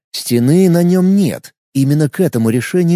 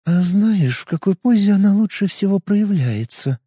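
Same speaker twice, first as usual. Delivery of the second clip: teasing, higher and hushed; playful whisper; 5 semitones higher than usual. Acted. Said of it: "игриво прошептала она".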